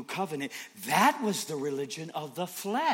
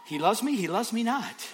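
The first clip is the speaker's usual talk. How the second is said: laughing; 6 semitones higher, 3 dB louder than usual. Acted. Mocking confusion.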